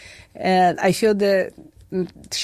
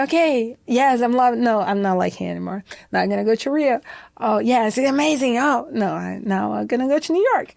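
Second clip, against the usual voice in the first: imitating herself; 4 semitones higher, faster than usual. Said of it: "And I say".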